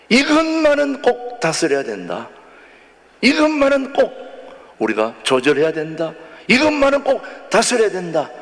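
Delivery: "이것만은 꼭" pitched very high; insistent preaching, "이것만은 꼭" lifted each time; emphatic proclamation. Shown as a demonstration. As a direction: drive home "이것만은 꼭" high, then drop. Proclaims the sermon's key message.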